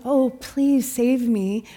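slow, drawn-out mock pleading; soft plea. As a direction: plead weakly, imitating a helpless cry for rescue. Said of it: "It wasn't soft. It wasn't form of a weakness".

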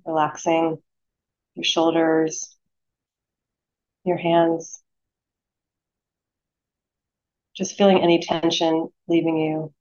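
unhurried meditation guide, long pauses between phrases; guided meditation. Acted. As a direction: lead them gently into stillness, phrase by phrase.

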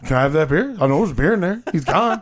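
pleading, high whiny fan voice; begging crowd voice. Retold or imitated. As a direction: whine it like a fan wanting beer. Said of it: "The crowd's just sitting there like".

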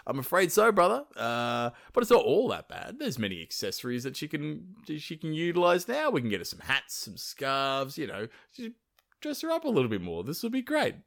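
nonchalant. Acted. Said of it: "Loki quite nonchalantly replies".

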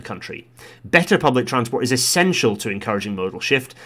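lightly put-on committee reader, emphatic; Transport Select Committee voice. Vlogger reading a rail report aloud, lightly voiced committee style. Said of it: "Transport Select Committee voice".

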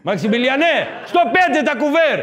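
hammed-up taverna boss; boss shouting orders. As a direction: call orders across a busy restaurant. Restaurant boss calling waiter.

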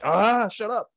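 irritated snap at the song; fed up, brushing it off; annoyed. Retold or imitated. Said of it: "you're like".

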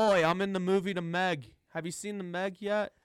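mock Cockney accent; Jason Statham impression. Co-host demonstrating the actor for his friend, Cockney accent. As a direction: have a go at a cheeky London accent. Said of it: "do a, a Jason Statham accent".

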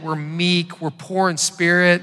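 loud, hammed-up pitch to a neighbor; overselling church to the neighbor with a loud grin; mock eager churchgoer. Pastor mimics inviting neighbor, loud hammed-up pitch.

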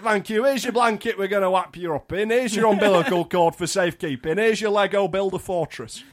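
mock doctor. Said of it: "the doctor's like".

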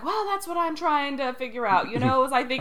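Frasier. Retold or imitated. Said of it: "when Frasier's like".

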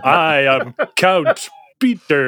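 slow, grand vampire count voice; lightly voiced pompous vampire.

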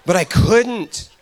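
low, rough damaged voice, laughing through it; lacerated larynx voice. Retold or imitated. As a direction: Dan answering the pastor in his low wrecked voice. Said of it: "And he said".

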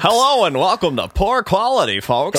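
bright, high game show host; hammed-up host voice. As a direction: overdo the cheerful welcome. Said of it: "Loving this character".

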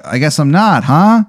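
lifting to a high questioning "huh"; awkward comic fishing for a response; sheepish self-answer. Acted. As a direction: retreat with a rising tag question. Acting out comedian bombing on stage.

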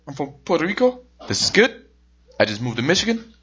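lightly voiced Puerto Rican mail lady; a hint of a thick Puerto Rican accent; imitated Puerto Rican accent. Mail lady tells a customer where she's from, imitated Puerto Rican accent. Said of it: "She's got a little thick accent".

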